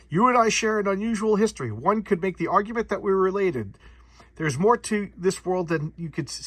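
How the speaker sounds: acted-out grand comic-book speech; dramatic revelation. Monster revealing a shared history to Joe, portentous.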